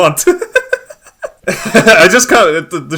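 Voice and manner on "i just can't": laughing through the words, slow and louder; can barely get it out for laughing. Real, not acted. Cohost cracking up at the announcement, laughing.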